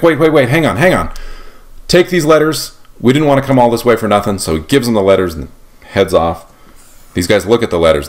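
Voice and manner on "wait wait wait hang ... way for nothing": higher, urgent 'wait, wait' pleading; eager protest. Retold or imitated. Young Lafayette pleads with Congress, mock urgent. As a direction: hold them back before they send you home. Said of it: "Lafayette's like".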